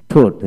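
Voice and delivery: "ঠোঁট" as thot, no g sound; silent GH. Shown as a demonstration. Teacher shows a spelled-out word to learners, GH silent in "ঠোঁট". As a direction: say "ঠোঁট" leaving the GH unspoken. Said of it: "জেস উচ্চারিত হবে না".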